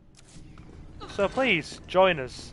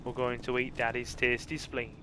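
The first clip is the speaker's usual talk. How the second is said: creepy zombie voice; 2 semitones lower, 5 dB quieter than usual. Pretend. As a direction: relish the spleen like a ghoul.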